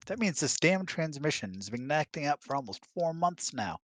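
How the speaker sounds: lightly mocking boyfriend voice; clueless boyfriend. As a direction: play the guy who only thinks of his transmission. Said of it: "He's like".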